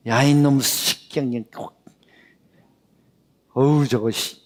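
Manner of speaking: slow, gruff mock scolding of a child; a hint of an angry parent swearing at a kid. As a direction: lightly imitate a fed-up parent cursing. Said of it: "부모님들이 이렇게 자주 하시잖아요".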